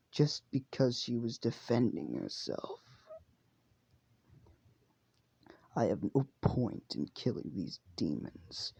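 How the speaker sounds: slow, soft, held-back voice slipping into whispers; bitter young demon, barely voiced; Gyutaro's voice. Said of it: "I have to do Uma in his voice".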